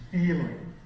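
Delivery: "feeling" with a long, emotional first vowel; elongated vowel. Shown as a demonstration. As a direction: stretch out "feeling" warmly. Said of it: "you elongate the vowel in the word".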